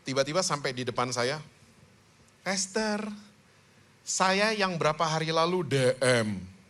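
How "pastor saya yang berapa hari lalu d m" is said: slow, drawn-out imitation of a man introducing himself; man's voice. Man greeting the pastor at church, imitated slow male voice. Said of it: "suaranya bukan perempuan".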